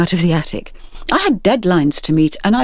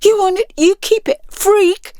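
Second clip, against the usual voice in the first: angry parting shot. Acted. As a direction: hurl it and leave. Girl storming off.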